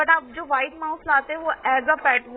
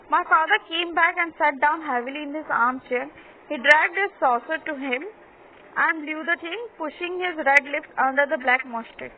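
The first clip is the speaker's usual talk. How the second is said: slow, measured reading aloud; story read-aloud; much slower than usual. A narrator's reading. Teacher reading a story to pupils, slow read-aloud. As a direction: read it out slowly, word by word.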